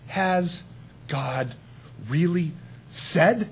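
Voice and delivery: slow, insinuating serpent question; sly serpent. Retold or imitated. Preacher voicing the serpent questioning God's word, slow and sly. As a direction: drag out the doubt, lightly sly. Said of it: "and he says".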